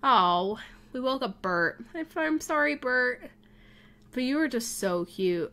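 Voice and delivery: ordinary talk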